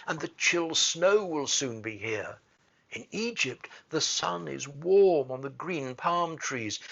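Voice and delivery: a restless little bird longing to fly south; eager swallow. Acted. Swallow speaks to prince.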